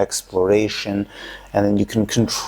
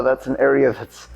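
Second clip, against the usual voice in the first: shaky vibrating voice. Real, not acted. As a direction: voice rattled by a vibrating massage ball. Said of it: "you hear my voice vibrating".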